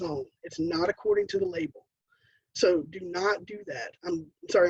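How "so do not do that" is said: slow and deliberate. Real, not acted. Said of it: "I'm speaking to you slow like you're".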